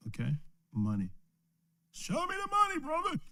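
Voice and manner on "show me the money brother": high, soft falsetto movie line; mock movie quote. Preacher joking to the class in a high falsetto quote. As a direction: squeak out the famous line for a laugh.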